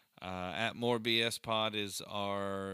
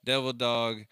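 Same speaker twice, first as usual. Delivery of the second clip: Marine cheer; loud gung-ho soldier; 5 dB louder than usual. Real, not acted. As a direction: call it out like a drill yell. Marine salute to veteran.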